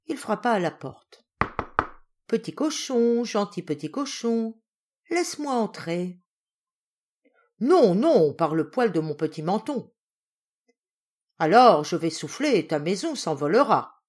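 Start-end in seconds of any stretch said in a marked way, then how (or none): 2.3-6.2 coaxing wolf. Acted. Wolf coaxes at the door. 7.6-9.9 defiant refusal. Acted. Pig refuses the wolf. 11.4-14.0 wolf threat. Acted.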